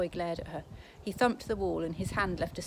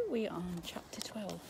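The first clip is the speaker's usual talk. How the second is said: hushed aside; 5 dB quieter than usual. Real, not acted. Teacher announcing chapter, whispering.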